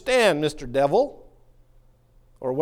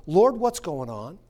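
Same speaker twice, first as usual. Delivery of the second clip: slow prayer; slower than usual. Shown as a demonstration. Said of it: "At some point, you say".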